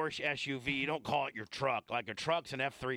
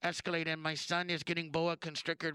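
mock wife calling OnStar; 3 semitones higher than usual. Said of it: "Hello, Chevy OnStar".

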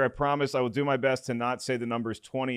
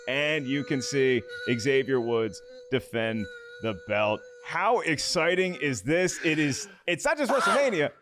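hype announcer read; 3 semitones higher, slower than usual. Acted. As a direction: build up the guest like a ring announcer. Host introduces wrestling guest.

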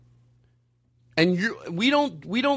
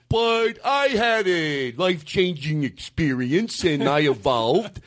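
put-on dumb accent; slower than usual. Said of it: "overly dumb, dumb, a-, dumb accent".

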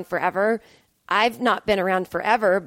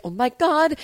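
higher, excited exclamation; excited reaction, pitched up; retold excitement; 5 semitones higher than usual. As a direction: replay being thrilled. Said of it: "I was so excited".

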